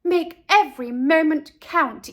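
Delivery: hurried call. Acted. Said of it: "zipped out to catch the bus and said".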